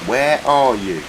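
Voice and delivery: loud high call. Pretend. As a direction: call out across a distance. Calling out for someone.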